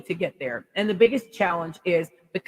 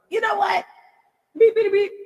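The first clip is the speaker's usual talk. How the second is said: high, louder censored outburst; mock cussing; 14 semitones higher, 3 dB louder than usual. Fed-up vlogger imagining cussing out trolls, mock outburst. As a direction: fake the bleeped rant.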